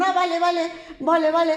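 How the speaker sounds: chorus of pigs. A narrator's reading. Everyone agreeing in the story.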